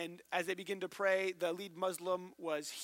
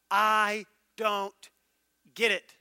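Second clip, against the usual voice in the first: mock frustrated student; 2 semitones higher, 11 dB louder, much slower than usual. Student asking teacher for help.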